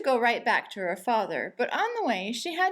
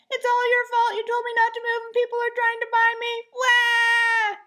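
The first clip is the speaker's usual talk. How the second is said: high, loud wailing complaint; whiny child; 12 semitones higher, 8 dB louder than usual. A narrator's reading. Daughter wailing at her father, high and loud. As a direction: blame him and wail.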